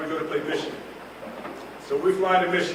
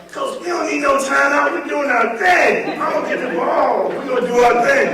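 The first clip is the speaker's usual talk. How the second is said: higher, louder cocky quarterback imitation, ending in a shout; cool Stanley, louder; 8 semitones higher, 6 dB louder than usual. Quarterback Stanley refusing the coach's timeout, cocky and loud. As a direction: wave the coach off with swagger. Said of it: "Stanley's so cool".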